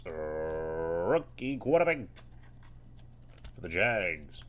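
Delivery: mock stadium announcer. Announcing Trevor Lawrence pull.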